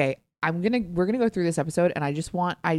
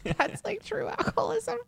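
whisper. Acted. Teasing aside about mixed drink.

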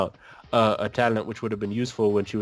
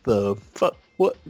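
disbelieving what the fuck, pitched up high on the repeat; mock shocked what the fuck, rising higher; incredulous outburst; 7 semitones higher than usual. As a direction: react like you can't believe what you just saw. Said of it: "which was like".

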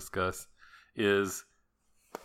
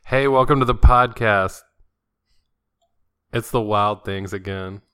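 loud, upbeat welcome; podcast host intro; 10 dB louder than usual. Acted. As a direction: open the show like a host. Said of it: "I don't have a good radio announcer voice".

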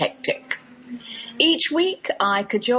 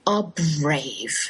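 gushing stranger; much slower than usual. Retold or imitated. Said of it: "She sighed".

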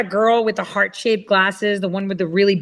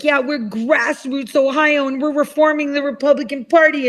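mocking imitation; 6 semitones higher than usual. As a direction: parody her smug pitch, dragging it out. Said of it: "She's like".

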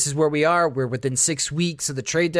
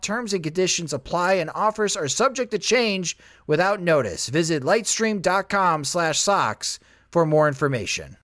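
ad read. Acted. Host reads sponsor ad.

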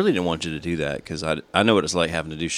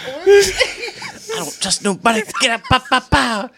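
laughing mock; 3 dB louder, slower than usual. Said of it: "mocking friend's scat".

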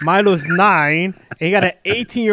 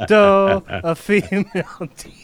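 dopey mock singer. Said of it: "I just want her to be like".

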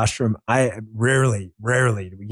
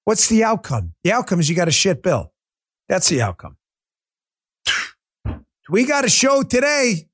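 New York accent; 7 semitones higher than usual. Shown as a demonstration. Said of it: "Back to my non-New York kind of speaking tone".

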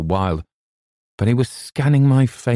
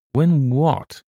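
astonished demand; 9 semitones higher than usual. A narrator's reading. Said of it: "demanded Hawbuck, astonished".

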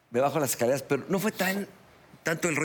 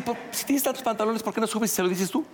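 much higher taunting voice of the rival; mock taunt; 9 semitones higher than usual. Storyteller mimicking his friend's taunting dare, high-pitched. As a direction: jeer at him like the shirtless friend.

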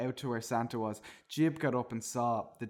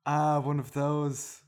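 barista voice; 4 dB louder than usual. Acted. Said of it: "yelled the barista".

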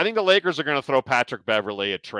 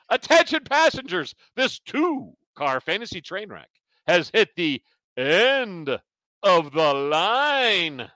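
train announcement; 6 semitones higher, slower than usual. Pretend. Mock train conductor sign-off.

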